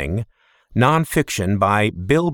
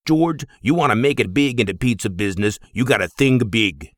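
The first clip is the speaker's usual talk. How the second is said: put-on booming Greek accent. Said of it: "boomed in an accent as thick as yogurt".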